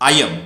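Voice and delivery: "I am" blended into "I'm"; "I am" as one short word, I'm; short form of "I am". Shown as a demonstration. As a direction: repeat "I am" as I'm for learners. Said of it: "one more time".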